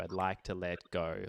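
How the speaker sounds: "I'd like to let go" pushed later, behind the beat; backphrased. Shown as a demonstration. Teacher showing the backphrasing many singers use. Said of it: "A lot of people would sort of backphrase that".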